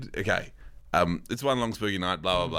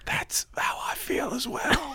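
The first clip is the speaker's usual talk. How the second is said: whisper; slower than usual. Real, not acted. Whispered aside.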